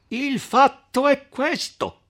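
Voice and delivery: the count shouting over the others to tell it. A narrator's reading. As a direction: jump in loud to take the floor. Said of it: "cominciava a gridare il conte Attilio".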